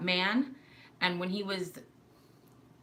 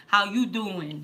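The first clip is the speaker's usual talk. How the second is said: loud Brooklyn accent from the throat; 6 dB louder, much slower than usual. Shown as a demonstration. New Yorker demonstrating Brooklyn speech, throaty Brooklyn accent. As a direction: set it back in the throat, Brooklyn-style. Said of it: "a little lower in the throat".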